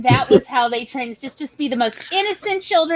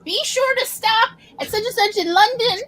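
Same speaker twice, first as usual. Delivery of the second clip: higher, chirpy tourist-guide voice; chatty guard; 8 semitones higher than usual. Retold or imitated. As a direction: gush local tips like a friendly guard. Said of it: "they're like".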